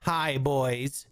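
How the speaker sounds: mock outrage. Telling off the porn bot, high mock shout. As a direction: shoo it off in a hammed-up shriek. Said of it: "I was like".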